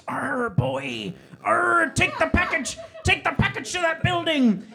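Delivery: put-on raggedy old man. Raggedy old man ordering the boy to take the package. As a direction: bark it like a ragged old sea dog. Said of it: "this raggedy old man".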